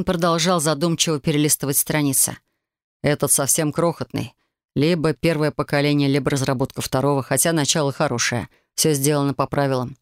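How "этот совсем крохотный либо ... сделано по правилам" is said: lower, calm explaining voice; lightly voiced demon. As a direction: explain like a patient mage. Green musing, voiced lower.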